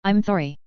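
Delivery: "sorry" said as "thorry"; tongue-damaged lisp on "sorry"; lisped apology. A narrator's reading. Jaraz wincing under Gavin's anger, lisping "sorry". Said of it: "Jaraz lisped".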